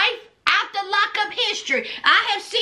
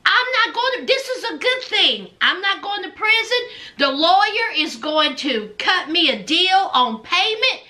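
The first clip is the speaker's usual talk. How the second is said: Blaine; 3 semitones higher than usual. Retold or imitated. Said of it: "Blaine is like".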